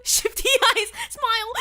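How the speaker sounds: high, cutesy aside; high mocking voice; mock sly newbie. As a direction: say it like a stage direction in a squeaky voice. Mocking the fake new player.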